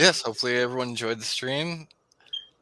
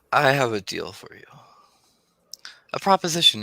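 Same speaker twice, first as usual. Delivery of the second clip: a hint of a scheming bargainer offering a deal; scheming villain Molt.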